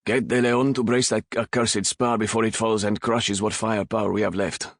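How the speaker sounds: captain roaring orders at the crew; roared order. Acted. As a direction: bark it over the noise of battle. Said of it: "Raffe roared".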